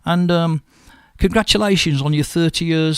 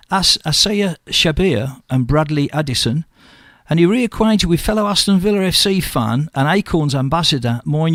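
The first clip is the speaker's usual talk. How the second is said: local radio news item, read out evenly. Real, not acted. Radio host tells listeners of royal hospice visit, news read. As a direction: read the charity story out to listeners.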